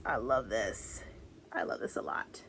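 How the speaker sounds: breathy whispered adoration. Real, not acted. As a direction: hush it like a secret delight. Whispered delight.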